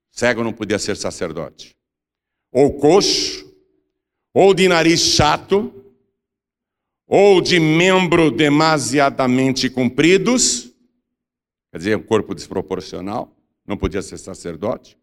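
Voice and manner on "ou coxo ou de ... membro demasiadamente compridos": slow, raised, declamatory Bible reading; scripture proclamation. A narrator's reading. Preacher reading Leviticus on future priests, solemn proclamation. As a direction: proclaim the law phrase by phrase, higher. Reads scripture list aloud.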